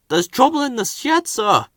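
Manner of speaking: high, anxious station master. A narrator's reading. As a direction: hurry in with bad news, pitched high.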